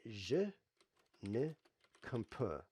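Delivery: halting English-accented French; slow, careful tourist French; foreign accent in French. Shown as a demonstration. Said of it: "I'm trying to speak French here".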